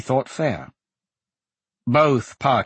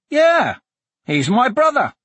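put-on high, raised little boy's voice; small voice; 6 dB louder than usual. A narrator's reading. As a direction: pipe up like a small boy reporting. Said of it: "a small voice said".

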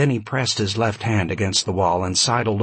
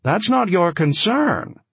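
controlled anger; 8 semitones higher, 3 dB louder than usual. A narrator's reading. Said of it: "unable to control his anger".

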